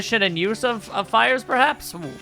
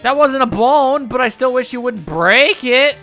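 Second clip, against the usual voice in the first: Madam Fawn; 4 semitones higher, 3 dB louder than usual. Acted. Fortune teller scolds player.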